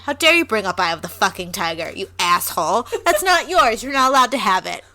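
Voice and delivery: indignant, quick telling-off with a laugh; hammed-up indignation breaking into laughter; mock outrage. Mock scolding over misused reference.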